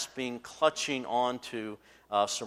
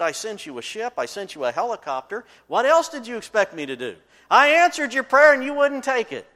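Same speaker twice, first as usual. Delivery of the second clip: rising to a loud, higher rebuke; exasperated God; 11 semitones higher, 12 dB louder than usual. Retold or imitated. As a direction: scold him, building frustration. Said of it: "He said".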